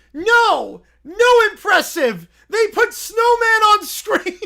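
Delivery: high, loud indignant bear shout; broken-English bear. Acted. Little Brown Bear protesting at the screen, high and loud. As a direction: protest like an upset toddler. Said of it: "Why is he broken English?".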